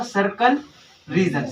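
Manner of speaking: सर्कल rising, a pause, then रीजन falling; a teacher's two-part drill word; split with a pause. Shown as a demonstration. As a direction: say सर्कल, hold, then drop onto रीजन. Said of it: "थोड़ा सा याद आ रहा होगा".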